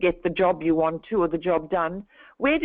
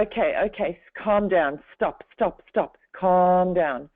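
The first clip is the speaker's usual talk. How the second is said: calming voice. Retold or imitated. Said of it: "I actually calmed my own pace down".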